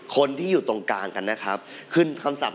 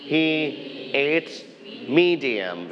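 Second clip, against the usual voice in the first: model sentence; much slower than usual. Shown as a demonstration. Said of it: "you can say".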